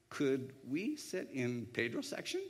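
slow, tentative mock request; drawn-out, hopeful asking. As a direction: imitate shy diners angling for a favor. Mimics hopeful diners asking, then laughs.

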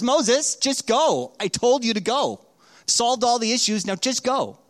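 fed up, ordering him to just go; frustrated God. Retold or imitated. God, fed up with Moses' excuses, loudly ordering him to go. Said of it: "God gets frustrated and says".

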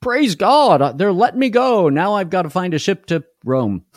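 high, loud mock joy at being freed; cheery relief. Pastor imagining himself freed from jail, high gleeful mock cheer. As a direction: squeal it like a freed man thanking God. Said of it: "I would have gone".

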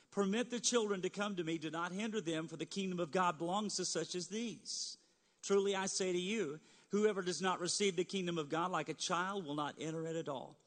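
measured bible reading voice; scripture reading. Acted. Pastor reading Jesus' words to the congregation, solemn. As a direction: read the verses with gravity.

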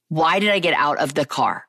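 regretful self-questioning at normal pitch. Real, not acted. Woman looking back on her wedding day, regretful. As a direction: ask it again soberly, word by word.

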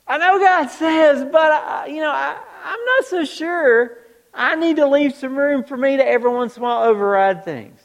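waffle like someone dodging obedience; mock hedging believer. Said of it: "I love this statement".

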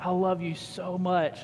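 slow, gentle I love you; tender reassurance. Retold or imitated. A father comforting his crying daughter, slow and tender. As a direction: hold her close and say it slowly. Hugging crying four-year-old.

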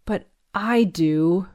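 slow, understated sob; a touch of tearful grief; sobbing. Acted. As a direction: say it through a mild sob. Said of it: "I sobbed".

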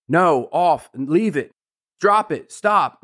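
the wrong way, an excited owner overcorrecting; overexcited scolding. Shown as a demonstration. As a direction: fire off the commands in a flustered rush. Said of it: "that is just gonna excite the puppy more".

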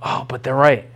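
low, deflated mock concession; defeated believer. Believer cornered by accusers, conceding in a low deflated voice. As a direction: give in, voice sinking low. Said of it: "We're gonna be like".

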